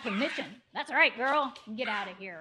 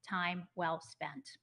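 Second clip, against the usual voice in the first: whisper; 5 semitones lower, 6 dB quieter, much slower than usual. Real, not acted. Host closing her YouTube plug.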